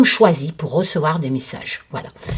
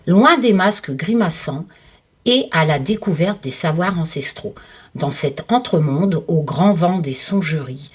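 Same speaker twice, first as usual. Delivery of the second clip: reading aloud. Acted. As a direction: read it like a mysterious blurb. Reads book blurb aloud.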